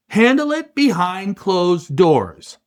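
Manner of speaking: firm, slow "handle it behind closed doors"; stern order. Retold or imitated. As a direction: lay it down like a hard command. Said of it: "Dana looks at the mess and says".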